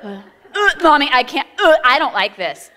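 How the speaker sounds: a hint of a whimpering kid; mock whimpering kid. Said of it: "Two of 'em".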